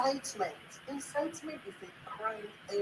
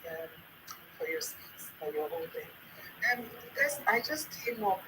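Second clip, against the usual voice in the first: echo; 2 semitones lower than usual. Real, not acted. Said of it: "Sorry, I'm echoing".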